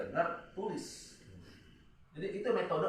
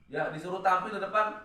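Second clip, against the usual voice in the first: mock critic; 8 semitones higher, 7 dB louder than usual. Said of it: "Gitu ya".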